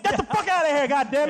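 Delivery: high, comically furious shout; mock angry yell. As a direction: act driving someone off in exaggerated anger. Acted staff yelling at customer.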